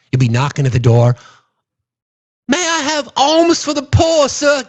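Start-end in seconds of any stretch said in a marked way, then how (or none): 2.5-4.6 high, slow mock beggar plea; hammed-up pleading pauper voice; begging pauper. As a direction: whine it like a Dickens urchin. Mock beggar from red states.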